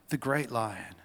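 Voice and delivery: emphatic storybook proclamation; Mister Beaver. Acted. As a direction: build the title up phrase by phrase. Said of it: "tells us in his enduring brogue".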